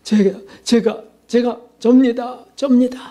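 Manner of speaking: acting a mildly startled, halting admission; startled woman. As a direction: stammer it out slowly, as if caught off guard. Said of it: "그 여인이 깜짝 놀라서". (살짝 놀라서 더듬거리는 말투)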